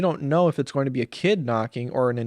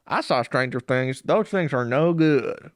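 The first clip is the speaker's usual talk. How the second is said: put-on gruff paranoid old man. Paranoid homeowner voiced.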